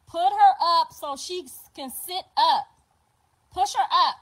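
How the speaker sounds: loud, pushing instructions over the phone; urgent shouted orders. Retold or imitated. Grandma shouting directions down the FaceTime. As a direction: bark orders to get her sitting up.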